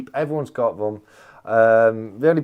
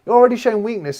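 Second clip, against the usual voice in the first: mock taunt; 10 semitones higher, 8 dB louder, faster than usual. Teasing Craven over the challenge.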